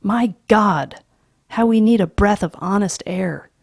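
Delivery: loud, hard tirade; angry father. Acted. Father rails at his family about the house, loud and angry. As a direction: rail against the machines.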